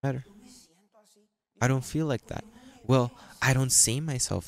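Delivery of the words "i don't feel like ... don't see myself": doubting churchgoer. Retold or imitated. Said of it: "said someone".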